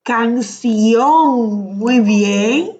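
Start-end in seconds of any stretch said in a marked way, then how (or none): 0.0-1.8 Canción drawn out on the accented -ción; stress on the last syllable. Shown as a demonstration. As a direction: stretch the O of Canción. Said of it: "Canción con el acento en la O". (Canción alargando la ó acentuada)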